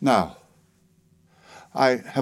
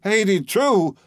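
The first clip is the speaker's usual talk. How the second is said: much higher, shocked outcry; shocked exclamation; 9 semitones higher, slower than usual. Acted. Narrator shocked by the old woman's age, shocked cry. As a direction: blurt it out in disbelief. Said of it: "I ejaculated".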